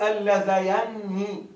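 اللذيان slowly, with the ya opened by fatha. Shown as a demonstration. Teacher answering a student's question, slow demonstration. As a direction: say اللذيان slowly, ya clearly open. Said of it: "تفتح الياء".

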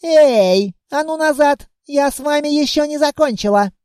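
sharp, high, commanding call; girl sternly yelling after fleeing lizards; stern shout. Acted. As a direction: bark them back into line. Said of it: "строго прикрикнула".

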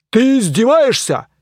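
loud, high outraged question; he can't believe the mockery; indignant knight.

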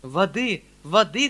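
a mild hurried cry; calling for water. Acted. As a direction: call out for water in a fluster. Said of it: "кричал дядя".

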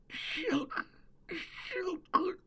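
very soft, high, faint clicks; barely audible croak. Acted. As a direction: croak like a dying old man. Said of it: "прокряхтел едва слышным голосом".

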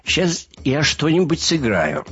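lightly voiced loopy musician, pitched high; a touch of giddy showman; dazed musician. A narrator's reading. Dazed Vim announces a tune.

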